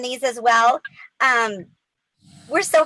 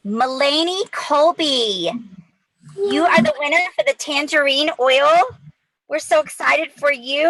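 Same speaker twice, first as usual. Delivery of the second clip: hyped giveaway announcement; 3 semitones higher than usual. Real, not acted. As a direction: build up the winner's name.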